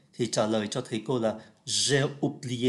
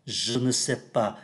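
slow careful reading; slower than usual. Shown as a demonstration. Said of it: "Khi đọc nhanh thì cái âm ơ này cũng biến luôn".

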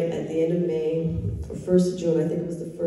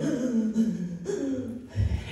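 sobbing gasp; 6 semitones higher, 3 dB quieter than usual. Real, not acted. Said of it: "and I'm sobbing".

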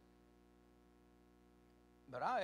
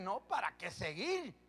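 imagined complaint of Paul; 3 semitones higher, 4 dB louder than usual. Pretend. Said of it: "ahí bien hubiera dicho él".

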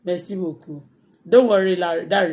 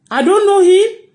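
mocking imitation; 7 semitones higher, 4 dB louder, much slower than usual. Mocking the commenter's claim.

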